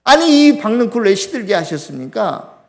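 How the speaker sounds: mildly angry protest to God; a touch of indignation, acting out a complaint. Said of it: "요나가 화를 냅니다". (살짝 화내며 따지듯)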